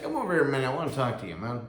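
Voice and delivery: sergeant calling over. Retold or imitated. Sergeant pulls new soldier aside, loud friendly call.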